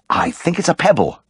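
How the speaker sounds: a light, breathy gasp of discovery. Acted. Vet gasping to the owner at the discovery. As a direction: catch your breath on the words. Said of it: "I gasped".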